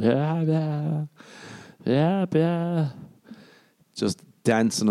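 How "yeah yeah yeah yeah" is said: mock singalong. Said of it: "Every song I was like".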